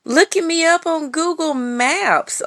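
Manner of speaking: high, disbelieving demand; incredulous outrage. Retold or imitated. Telling the online stranger off, high and incredulous. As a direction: squeal it out, creeped out and baffled. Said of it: "And I was like".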